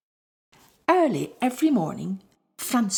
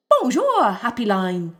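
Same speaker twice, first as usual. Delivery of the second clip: chirpy little birds; 2 semitones higher, 4 dB louder than usual. Acted. Sparrows answer.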